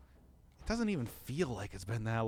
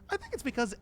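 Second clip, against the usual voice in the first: voice cracking; 11 semitones higher, faster than usual. Real, not acted. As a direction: voice breaks up high. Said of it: "was that, like, my voice cracking there?".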